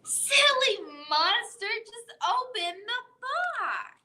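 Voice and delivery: playful shout from friends; friends calling out. Acted. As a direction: call out playfully to the monster. Friends call out to monster.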